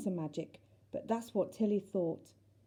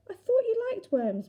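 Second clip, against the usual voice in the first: surprised; 11 semitones higher than usual. Acted. Tilly surprised at Mrs Hardcastle.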